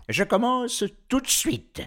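high, eager announcement. A narrator's reading. Professor agreeing to start training, eager.

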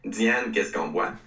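slow, nasal talk-show host voice. Retold or imitated. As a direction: stretch it out slowly through the nose. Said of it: "Guy Lepage dit avec une voix nasillarde".

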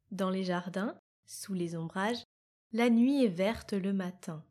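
reading a poem aloud with care; poem recitation. Acted. Podcast host reads Louise de Vilmorin's poem to listeners, poetic recitation. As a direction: let each verse ring like a recited poem.

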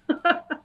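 a brief laugh to yourself; light laugh. Real, not acted. Guest amused after answering that the force inspired her book, light laugh.

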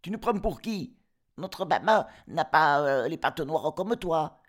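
cris aigus et forts d'enfants; chevreaux qui crient. Acted. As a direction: ils refusent d'ouvrir, en criant. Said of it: "crièrent". (chevreaux criards)

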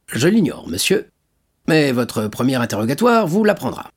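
high, firm official's voice; stern commissaire. Acted. Commissaire répondant fermement à monsieur Morel. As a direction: play the police commissary, stiff and formal.

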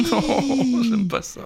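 vocoder. Real, not acted. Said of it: "Avec le vocodeur".

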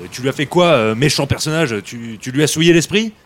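carefully censored, mock-polite question; toned-down politeness. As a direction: rephrase it politely on purpose. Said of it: "alors mollo sur les saletés".

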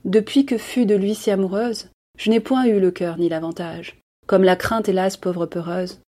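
measured, tender recited lament; poem recitation. Acted.

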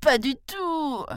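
high, eager tiger protest; the tiger swears to the brahman, high and eager; tiger swearing. Acted. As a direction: squeal it out as a sworn promise. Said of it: "jura le tigre".

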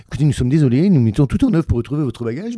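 mildly stiff, official apology; formal airline announcement. Acted. Steward telling a passenger the bag is lost, formal. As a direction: recite the company's formal apology. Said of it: "normalement, c'est un, un truc très, très pré".

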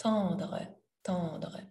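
Tendre with the dre just dropped at the end; soft ending. Shown as a demonstration. Teacher shows learners the soft dre, pronounced. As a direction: let the dre fade away softly. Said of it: "you won't pronounce the dre too strong".

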